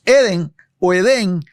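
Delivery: "Eden o Edén" with the force on the E in "Edén"; stress on the E. Shown as a demonstration. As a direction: lean on the E of "Edén". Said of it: "con acento en la E".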